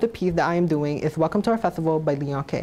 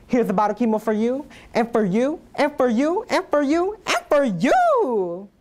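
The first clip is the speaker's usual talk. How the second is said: mock giveaway; 3 semitones higher than usual.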